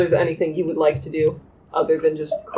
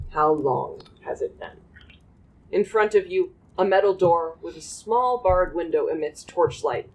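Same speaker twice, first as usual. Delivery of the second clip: game master narration. Acted. GM scene setting.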